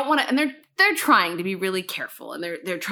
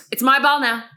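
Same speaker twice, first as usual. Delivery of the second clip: petty declaration; 5 dB louder than usual. Retold or imitated. Retelling her own petty confiscation.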